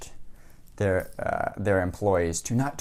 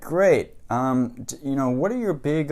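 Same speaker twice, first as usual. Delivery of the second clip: higher, louder fake enthusiasm; mock eager; 6 semitones higher, 4 dB louder, slower than usual. Reporter pumping the seller for info, mock eager and higher. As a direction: gush like a salesman's dream client.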